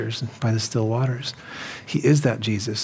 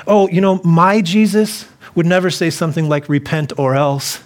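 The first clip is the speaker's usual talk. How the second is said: higher, louder mocking voice of a naive believer; 5 semitones higher, 4 dB louder than usual. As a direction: parody them breezily, a little higher and louder. Mocking people's easygoing Jesus.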